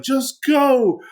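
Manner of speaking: urging a friend to run for the ship; high, pressing shout-out of a teammate; urgent friend. Retold or imitated. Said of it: "my friend was like".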